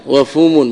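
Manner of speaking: وفم said wa-fum, u after the f; فم بضم الفاء; fum with damma. Shown as a demonstration. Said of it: "بضم الفاء".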